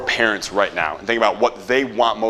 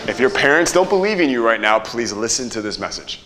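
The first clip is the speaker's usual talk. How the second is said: hook delivery. Shown as a demonstration. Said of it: "What was the hook?".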